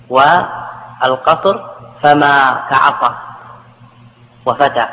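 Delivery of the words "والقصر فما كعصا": slow, فما held with long final a; drawn out فما like عصا; shortened form. Shown as a demonstration. To students, demonstrating the short form فما. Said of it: "تقول".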